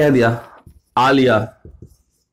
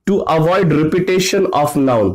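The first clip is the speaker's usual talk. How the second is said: slow, clear dictation pace; much slower than usual. Shown as a demonstration. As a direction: say it slowly so they can write. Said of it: "तो ये क्या करता है". (धीरे-धीरे लिखवाना)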